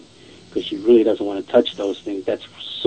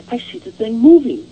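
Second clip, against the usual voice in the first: imitating her alarm in a high voice; pitched-up mock alarm; retold alarm; 11 semitones higher, 4 dB louder than usual. Woman sees the Ouija board moving, retold alarm.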